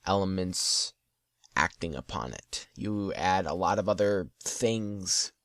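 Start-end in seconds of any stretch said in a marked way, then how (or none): 2.7-5.3 words stretched by a yawn. Real, not acted. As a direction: talk through a yawn. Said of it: "and a yawn".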